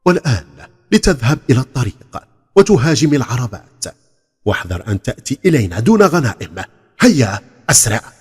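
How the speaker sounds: loud bossy orders; commanding. Acted. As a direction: bark orders at the boy. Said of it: "وقال له آمرا".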